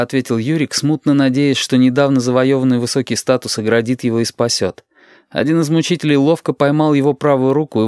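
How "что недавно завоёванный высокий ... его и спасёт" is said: usual speaking voice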